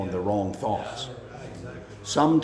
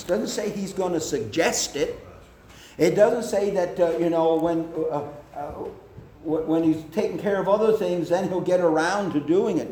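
mock dismissive; 5 semitones higher, faster than usual. Preacher mocking a lazy, delayed God.

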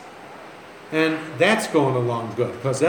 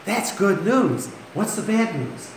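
higher-pitched, mock delighted crowd; retold pleased reaction; 5 semitones higher than usual. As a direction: imitate a congregation cheering up, then asking. Congregation reacting to good news.

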